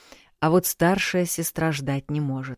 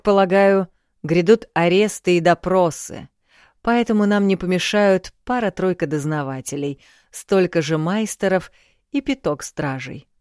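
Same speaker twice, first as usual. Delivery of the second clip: commanding king, a touch louder; booming warrior king; 2 semitones higher, 3 dB louder than usual. Acted. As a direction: lay down orders like a king. King giving orders. (властный король)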